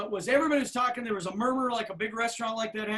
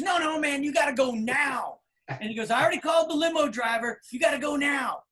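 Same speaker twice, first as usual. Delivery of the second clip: higher, louder pressing order; don't take no for an answer; insistent shout; 5 semitones higher, 3 dB louder than usual. Retold or imitated. Manager ordering the band to leave now, insistent.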